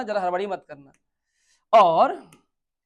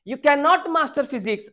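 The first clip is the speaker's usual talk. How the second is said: slow, louder, higher word-by-word read; 6 semitones higher, 5 dB louder, much slower than usual. Shown as a demonstration. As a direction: read the sentence slowly to the class. Rereading the question sentence slowly. (धीरे, ज़ोर से पढ़ना)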